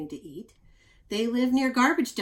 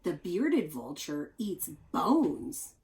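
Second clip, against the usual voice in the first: slow amazed reading; slower than usual. Real, not acted. Marvelling at bone-eating vulture.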